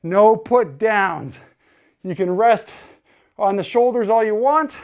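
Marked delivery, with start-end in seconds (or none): 0.0-1.4 slow, each word stressed: no put downs. Shown as a demonstration. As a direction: lean on "no", drawn out and firm. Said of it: "Most difficult is once we start".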